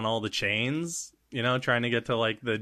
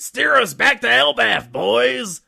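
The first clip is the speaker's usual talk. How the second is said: booming captain voice; 12 semitones higher, 8 dB louder than usual. Acted. Big Mom? role voice shouting order.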